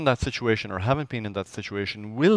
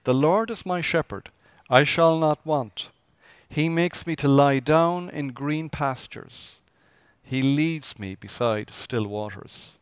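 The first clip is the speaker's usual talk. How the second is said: slow, deliberate psalm recital; scripture reading; 2 semitones higher, slower than usual. Acted. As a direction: savour each line of the psalm.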